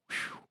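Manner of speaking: long blown-out whew; exhaled whew. Real, not acted. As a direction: let out a whistling puff of breath. Exasperated wonder at the apprentice.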